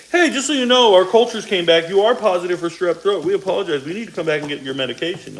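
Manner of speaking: high, cheerful apology call; lightly voiced receptionist; mock phone caller. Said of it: "it's like".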